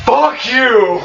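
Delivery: high-pitched shrieked curse, laughing through it; girly scream. Acted. GM voicing the terrified Nosta at the player, high girly shriek. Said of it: "like, girly as fuck, like, screams".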